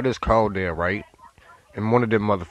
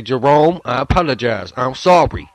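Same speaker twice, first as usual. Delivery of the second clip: louder demand; 3 semitones higher, 4 dB louder than usual. Shown as a demonstration.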